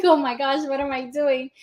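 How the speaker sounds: hammed-up alarmed teen panic; panicked teen. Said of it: "he's like".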